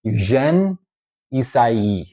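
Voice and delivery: Eugène Ysaye said as EE-sah-ee; pronounced the French way. Shown as a demonstration. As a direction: say Ysaye as ee-SAI-ee, no Y sound. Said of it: "to pronounce Ysaye's name is".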